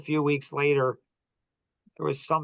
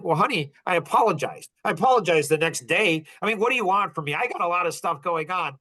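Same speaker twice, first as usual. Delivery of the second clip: pitched-up, mock defensive whine; defensive dad; 4 semitones higher than usual. Father imagines snapping back at his hurt daughter, mock defensive. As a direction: put on an exasperated, defensive edge. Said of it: "I could have become defensive".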